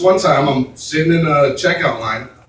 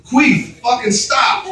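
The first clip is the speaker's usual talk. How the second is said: snapping out loud; 7 semitones higher, slower than usual. Retold or imitated. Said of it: "And so I go".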